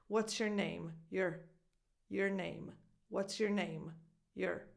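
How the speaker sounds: "your" as a short, weak "yer"; reduced your. Shown as a demonstration. Coach repeating the reduced sound for learners, reduced your. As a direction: shrink "your" to "yer" each time. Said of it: "already reducing the sound of your".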